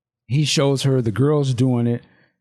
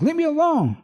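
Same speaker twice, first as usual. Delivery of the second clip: Vanity pulling away; 6 semitones higher, faster than usual. Acted. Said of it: "And Vanity's like".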